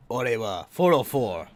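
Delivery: slow, bold macho delivery; Chad voice. Shown as a demonstration. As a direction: say it like a confident Chad. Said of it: "you say it like a Chad".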